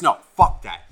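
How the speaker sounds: loud, punched mock refusal; emphatic, loud retort; retold defiant refusal. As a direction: act out a buddy's stubborn refusal. Friend refusing in retold argument.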